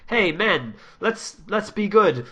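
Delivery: lightly hammed-up advert voice; mock earnest ad voice. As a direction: spoof a cheesy feel-good commercial. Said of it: "the Gillette ad that everyone hated that was like".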